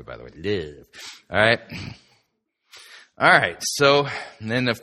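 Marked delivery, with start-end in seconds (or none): 0.3-0.9 lower, softer "Love" with an affected vowel, like "liv"; mystical-style LOVE. Shown as a demonstration. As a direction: draw out "Love" in a mock-mystical way. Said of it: "You have to say it that way".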